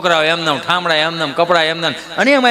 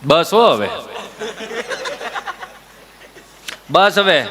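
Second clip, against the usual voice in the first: stern father; slower than usual. Retold or imitated. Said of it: "બાપ સાનો રાખતો હોય".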